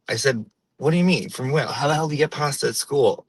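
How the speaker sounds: put-on old-school Portuguese-American accent, hard word endings; imitated Portuguese-American mother telling everyday stories; Portuguese-American woman. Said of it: "all women like that".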